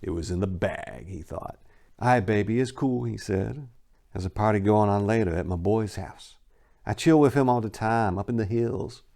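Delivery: dramatic reading of a crime tale; story narration. A narrator's reading. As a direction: read it like a gritty storyteller. Reads the story aloud.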